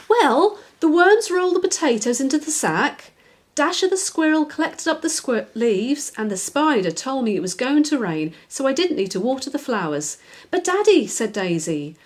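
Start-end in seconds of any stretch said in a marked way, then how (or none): 0.1-10.2 higher, lightly voiced little girl; a child insisting to her father; little girl Daisy. Daisy insisting to Daddy she had help, in a higher little-girl voice. 10.5-11.1 higher, lightly voiced little girl; a child insisting to her father; little girl Daisy. Daisy insisting to Daddy she had help, in a higher little-girl voice.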